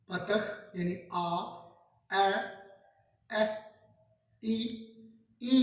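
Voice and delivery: slowly sounding out each Hebrew vowel; vowel sounds demo. Shown as a demonstration. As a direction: say each vowel clearly, one by one. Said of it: "ये आपने पांच सीखे". (हर स्वर को धीरे और साफ़ बोलना)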